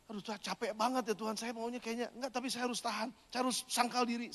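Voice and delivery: doa lirih orang kecapekan; pelan, seperti mengeluh capek kepada Tuhan; keluhan lemah. Retold or imitated. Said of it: "kayaknya lemah banget gitu". (menirukan doa lelah dengan suara pelan)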